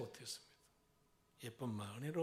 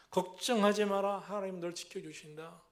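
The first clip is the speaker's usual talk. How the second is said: louder, insistent reassurance; a mother steadying her child with a raised voice; mother's firm comfort; 3 semitones higher, 5 dB louder than usual. Retold or imitated. Mother to her child, louder insistent reassurance.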